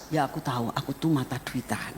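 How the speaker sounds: soft, low-key owning up; subdued admission. Retold or imitated. Husband confessing his greed to his wife, subdued. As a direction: admit the fault quietly.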